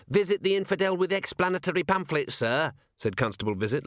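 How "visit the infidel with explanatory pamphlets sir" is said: high, insistent voice of a wounded subordinate; hurt correction. Acted. Constable correcting his commander on his full name, hurt. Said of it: "looking hurt".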